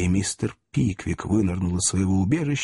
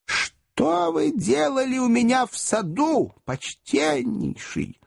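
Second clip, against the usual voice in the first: 1 weak voice; 14 semitones higher, slower than usual. Acted. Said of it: "слабым голосом спросила мисс Томпкинс".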